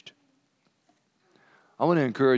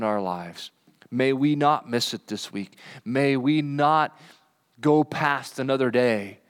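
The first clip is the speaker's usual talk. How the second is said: closing prayer. Acted. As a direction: pray over them gently. Closing prayer over congregation.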